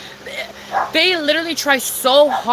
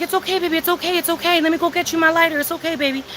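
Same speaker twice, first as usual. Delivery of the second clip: quick, tender hushing in a retelling; soothing reassurance; 4 semitones higher, faster than usual. Retold or imitated. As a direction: imitate someone calming a crying friend. Stranger soothing her as she cries.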